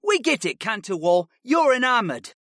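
dismissive jab with high starts; weary mockery of a classmate; eye-rolling. A narrator's reading. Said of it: "with a roll of his eyes".

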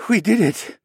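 high, breath-led giddy disbelief; exhale, then burst out high on the edge of hysteria; overwrought, loud relief; thready, near hysteria. A narrator's reading. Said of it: "in a thready voice on the edge of hysteria".

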